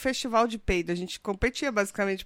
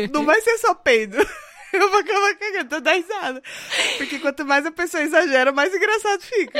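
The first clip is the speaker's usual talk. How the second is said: laughing; 6 semitones higher than usual. Real, not acted. Laughing hard at the story.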